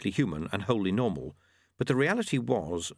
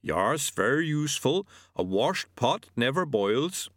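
lightly voiced yeti; 5 semitones higher than usual. A narrator's reading.

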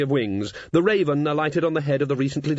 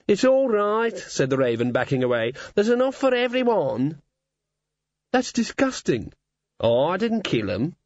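raspy cawing crow; 6 semitones higher than usual. Acted. Raven backing away.

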